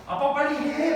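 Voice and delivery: lightly voiced little son urging his dad; son's whine. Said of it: "얘가".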